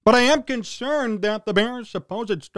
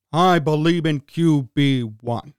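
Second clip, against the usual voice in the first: lower, slow mock believer voice; mock true believer; 6 semitones lower, 4 dB louder, slower than usual. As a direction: drawl it like a devoted fan. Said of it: "Have fun sipping your Kool-Aid".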